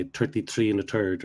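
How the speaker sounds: "thirty-three and a third" with hard T's in place of TH; Irish T for TH. Retold or imitated. Ulster teacher quoting a classic joke, "thirty-three and a third" with T for TH. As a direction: make the TH in "thirty-three and a third" a T, like "tirty" and "turd". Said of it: "classic jokes about the way Irish people speak English".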